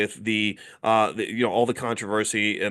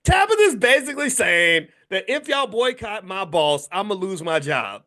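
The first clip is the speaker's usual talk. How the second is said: blunt translation voice; 8 semitones higher, 3 dB louder than usual. Retold or imitated. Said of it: "I'm gonna do a translation".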